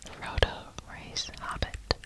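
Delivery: usual speaking voice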